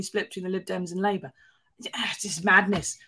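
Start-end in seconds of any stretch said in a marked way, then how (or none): 1.8-3.0 slow exasperated whisper; whispered madness, then said aloud; disbelieving whisper. Real, not acted. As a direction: breathe it out in disbelief. Exasperated at a newspaper column.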